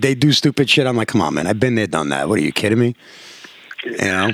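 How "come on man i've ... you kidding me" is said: lightly voiced dad, dropped low; low, dry brush-off; unimpressed dad. Dad answering kids' stupid tricks, lightly voiced as unimpressed.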